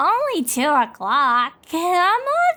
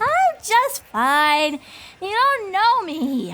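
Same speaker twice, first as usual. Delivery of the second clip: put-on a touch of drunken denial; tipsy; 5 semitones higher than usual. Tipsy pony insisting she is fine, mildly slurred. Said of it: "Twy is drunk".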